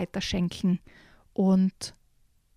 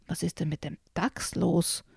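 sullen thought; 2 semitones lower, 6 dB quieter than usual. Acted. Deer wonders about the badger, soft sullen thought. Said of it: "dachte der Hirsch missmutig".

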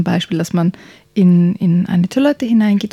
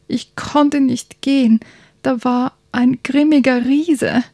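complaining little prince; 5 semitones higher, slower than usual. Acted.

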